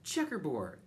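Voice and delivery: loud taunting call; shouted. A narrator's reading. Classmate calling out a pattern at Camilla, shouting. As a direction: shout it across the room. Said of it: "Someone else shouted".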